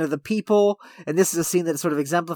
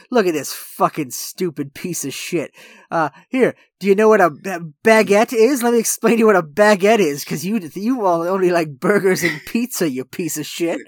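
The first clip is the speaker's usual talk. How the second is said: mock condescending waiter, louder on the explaining; snooty waiter; 4 dB louder than usual. Waiter talking down to a customer he thinks only eats burgers, mock snooty. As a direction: talk down to a customer, hammed up. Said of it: "he's got this snooty waiter who's like".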